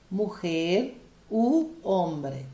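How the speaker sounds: "Mujer u hombre" very slowly, each word apart; Spanish linking U. Shown as a demonstration. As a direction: stretch the oo of "u" before "hombre". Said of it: "Como que eu falo isso em espanhol".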